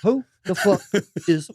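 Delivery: indignant character. Acted. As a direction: act affronted in a silly character. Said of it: "What the fuck is this character you're doing?".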